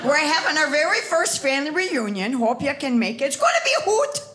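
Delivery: lightly imitated Wisconsin accent, laughing; cousin's Wisconsin accent. Reading her cousin's reunion email aloud, in a light Wisconsin accent. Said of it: "she typed the accent in the email".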